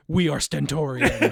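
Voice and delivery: lightly mimicked band frontman announcing into the mic; mock stage announcement; band frontman intro. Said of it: "leans into the microphone and goes".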